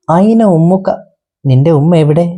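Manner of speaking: high, concerned storybook lion asking the lamb; a kindly lion's question, pitched high. Acted. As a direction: ask it up high with kind concern, like a gentle lion. Lion asks where mother is.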